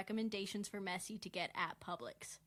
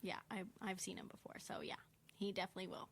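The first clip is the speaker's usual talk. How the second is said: quick hushed whisper; 7 dB quieter, much faster than usual. Real, not acted. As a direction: whisper it like a confidence. Whispered aside about Haaland.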